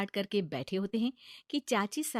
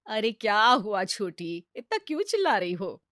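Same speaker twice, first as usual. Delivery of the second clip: calm mother-in-law; 6 dB louder than usual. Acted. Mother-in-law calms chachi.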